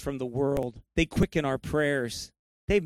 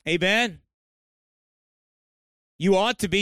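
raised-pitch, emphatic preaching; forceful exhortation; 4 semitones higher, 3 dB louder than usual. Real, not acted. Preacher urging believers to live sanctified through trials, forceful exhortation. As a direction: press the charge home to the congregation.

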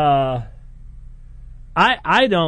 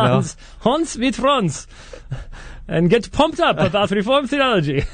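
laughing; 10 semitones higher than usual. Pretend. Repeating the joke laughing.

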